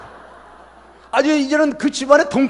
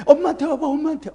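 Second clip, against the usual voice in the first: put-on high sweet baby talk to a pet dog; mock doting pet owner voice; cooing to a dog; 5 semitones higher than usual.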